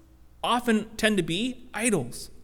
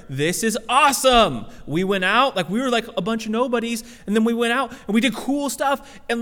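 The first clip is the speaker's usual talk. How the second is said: excited disciples; 3 semitones higher than usual. Retold or imitated. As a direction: boast like kids who just won a battle. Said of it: "They're excited, they're rejoicing".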